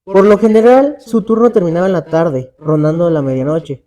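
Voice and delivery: measured read-aloud storytelling with pauses between phrases; horror story narration. A narrator's reading. Podcaster telling a friend's ghostly canal encounter, scary-story narration. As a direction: narrate an eerie true account, phrase by phrase.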